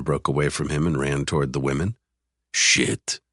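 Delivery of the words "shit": whispered swear under breath; muttered curse. Acted. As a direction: hiss it under your breath. Curse under breath, fleeing girl.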